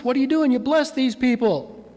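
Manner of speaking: frustrated king ranting at the prophet; going nuts. Retold or imitated. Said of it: "He goes nuts".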